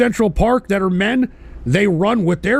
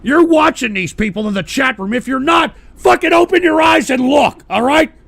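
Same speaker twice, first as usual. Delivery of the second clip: angry yell; 5 semitones higher, 4 dB louder than usual. Acted. Yelling at viewers.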